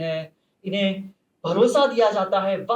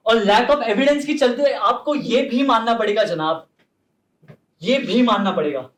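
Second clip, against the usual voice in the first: forceful outburst; 4 dB louder than usual. Acted. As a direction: thunder it at the court. Courtroom climax, lawyer thunders.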